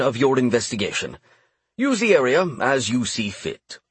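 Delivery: a polite king hosting guests; gracious king. Acted. King addresses the group.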